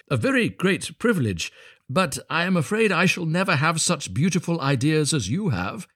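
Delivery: high, wistful admiration; humble little Hans. A narrator's reading. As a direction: defer to him earnestly in a high voice.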